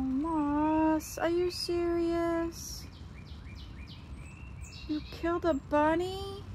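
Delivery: high, drawn-out cry of reproach; slow, pleading dismay; dismayed scolding. Real, not acted. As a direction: scold the cat in wailing disbelief. Scolding cat over dead bunny.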